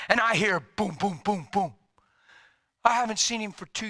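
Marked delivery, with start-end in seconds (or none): 0.6-1.7 booming knocks, each one falling; imitated knocking. Preacher recalls his son at the door, imitated knocking.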